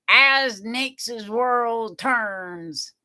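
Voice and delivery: slow, drawn-out soap opera title read; soap opera announcer. Shown as a demonstration. Announcing her show to viewers, as a slow soap opera title. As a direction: announce it like a daytime drama intro. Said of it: "Kinda like a soap opera".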